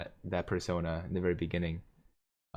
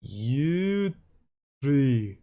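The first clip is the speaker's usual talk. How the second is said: loud, high, drawn-out mock Irish accent; 7 semitones higher, 5 dB louder, much slower than usual. Shown as a demonstration. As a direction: ham up an Irish accent that veers toward Scottish. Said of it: "Show us your Irish accent".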